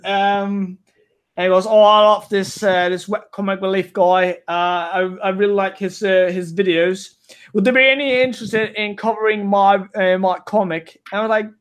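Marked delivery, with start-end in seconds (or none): 1.7-11.0 put-on a mild, half-hearted English accent; lightly put-on English accent, quoting a cartoonist; bad English accent. Cartoonist asking to be reviewed, in a mock English accent. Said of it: "I'm about to do the worst English accent you've ever heard".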